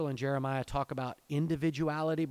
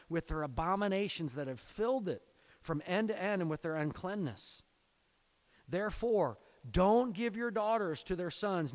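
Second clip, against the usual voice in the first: put-on raised, earnest reading of the old command; scripture reading; 3 semitones higher than usual. Preacher reading God's command to the congregation, earnest. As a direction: read it like a charge laid on the people.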